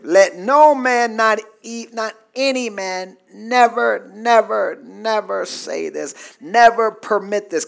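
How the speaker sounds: each "never" set apart as a command; insistent "never", said as a firm order; emphatic, imperative. Shown as a demonstration. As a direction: lean on every "never", repeated deliberately. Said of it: "it's emphatic, it's imperative".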